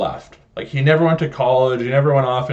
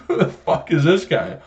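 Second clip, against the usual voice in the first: slightly raised, incredulous jab; mocking disbelief; 4 semitones higher than usual. Customer reacting to manager's picture in store, mocking disbelief.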